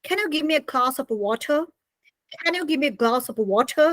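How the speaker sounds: British request with crisp t in water; British-style water, r dropped; British accent. Shown as a demonstration. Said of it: "And the British people say".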